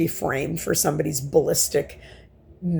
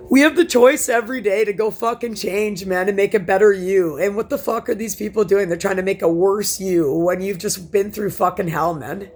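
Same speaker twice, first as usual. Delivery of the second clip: angry rant; 2 semitones higher than usual. Real, not acted. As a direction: vent your fury at them. Angry rant about abusers.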